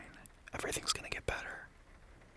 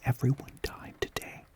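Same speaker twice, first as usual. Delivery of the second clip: mock gotcha, louder; 9 dB louder than usual. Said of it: "have, like, a gotcha".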